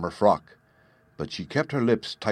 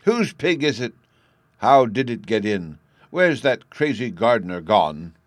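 alarmed outburst; 2 semitones higher, 7 dB louder than usual. Acted. Lady rushes to window, alarmed.

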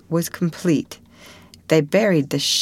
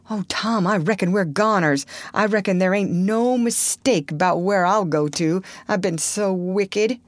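put-on higher, plaintive boyish wail, understated; doomed lament; 3 semitones higher than usual. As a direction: lament your wickedness to your friend. Huck laments that they are doomed.

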